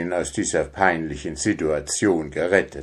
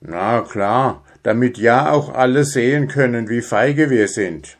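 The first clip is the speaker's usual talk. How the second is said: grumbling; 3 semitones higher than usual. Acted. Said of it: "maulte Schnuffi".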